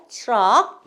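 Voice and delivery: loud "chruck" for 트럭; emphatic English-style 트럭; corrected English pronunciation. Shown as a demonstration. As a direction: punch 트럭 with blended "chr" onset. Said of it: "이렇게 말씀하셔야 돼요".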